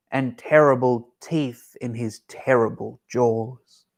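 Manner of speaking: mouse spinning a tale. Acted. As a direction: savour each terrible slowly. Mouse describes monster.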